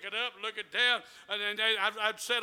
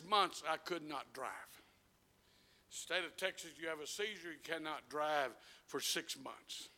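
much softer, lower telling; quiet testimony; 5 semitones lower, 5 dB quieter than usual. Acted. Preacher softly testifying about his seizure. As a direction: hush down, confiding.

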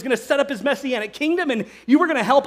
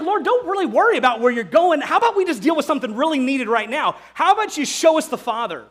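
demanding; 5 semitones higher, 4 dB louder than usual. Retold or imitated. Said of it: "He's like".

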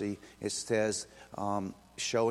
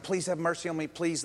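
mildly acted plea, raised pitch; light, higher-pitched imploring; begging; 5 semitones higher than usual. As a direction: plead for mercy. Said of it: "he begged and he pleaded".

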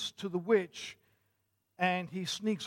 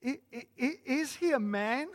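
put-on higher, stammering girl's question; Lucy; 5 semitones higher than usual. A narrator's reading. Lucy asks the Beavers about Aslan, hesitant and questioning. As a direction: ask haltingly, pitched up. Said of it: "asked Lucy".

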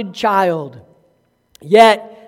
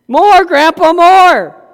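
put-on higher, louder pleading little girl; begging toddler; 8 semitones higher, 8 dB louder, slower than usual. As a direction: whine for more like a small child. Grandchild begging grandpa.

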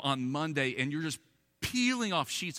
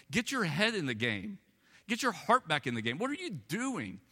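a stern, higher voice of the Spirit scolding; Holy Spirit's rebuke; 5 semitones higher than usual. Retold or imitated. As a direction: wake him up like the Spirit speaking.

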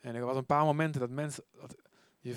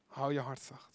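soft repeat; 9 dB quieter than usual. Shown as a demonstration.

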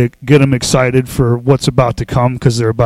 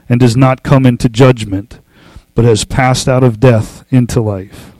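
scripture reading. Acted. Reads scripture aloud.

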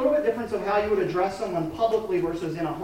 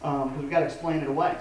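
dismissive; 6 semitones lower, faster than usual. Retold or imitated. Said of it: "we're very quick to say".

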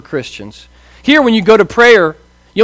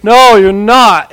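put-on child's fit; 3 semitones higher, 6 dB louder, much slower than usual. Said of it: "he'll do this fit".

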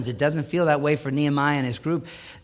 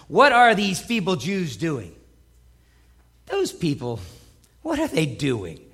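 mocking. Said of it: "You can just hear the mocking in his voice".

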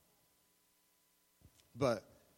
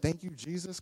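questioning, less forceful quote; incredulous echo. Acted. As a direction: throw it back as a question. Woman quotes pastor back in disbelief.

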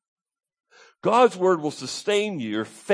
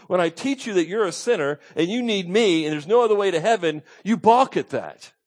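higher-pitched, insistent preaching paraphrase; confronting challenge; 4 semitones higher than usual. Acted. Preacher voicing Jesus to disciples who do not believe, confronting them. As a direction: press each point as a mild reproach.

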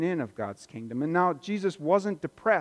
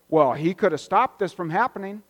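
cynical; 3 semitones higher, 4 dB louder than usual. Retold or imitated. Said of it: "That's cynicism".

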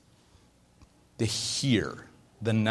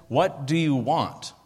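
Jesus asking; slower than usual. Retold or imitated. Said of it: "Jesus says".

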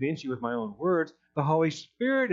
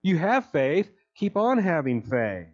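raised, urgent exhortation; urging; 4 semitones higher, 3 dB louder, slower than usual. Retold or imitated. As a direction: press the church to hold on. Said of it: "he tells the church".

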